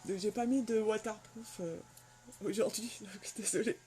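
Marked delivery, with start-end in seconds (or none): 2.4-3.8 laughing. Real, not acted. Apologising for running mascara, laughing.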